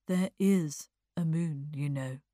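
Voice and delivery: a touch wistful and languid; lightly voiced sorrowful young man. Eddie turning to Bertha about the moon, faintly mournful. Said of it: "sorrowful young face".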